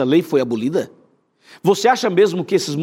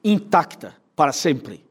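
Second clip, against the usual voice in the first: slow solemn response; slower than usual. Shown as a demonstration. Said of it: "E diga assim".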